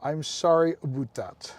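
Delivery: slow mock-Canadian apology, "about" as "aboot"; lightly put-on Canadian accent; wannabe Canadian. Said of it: "as a wannabe Canadian".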